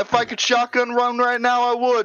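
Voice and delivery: high, drawn-out party holler; rowdy celebration yell. Pretend. Cohost cheering that Gen six is over, rowdy and hyped. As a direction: cheer it out like a hyped-up race fan. Pretend celebration of era ending.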